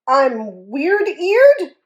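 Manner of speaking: high, slow wail. Acted. Hippo wailing at the bully's jibe. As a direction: stretch it into a hurt wail. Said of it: "wailed Fragility".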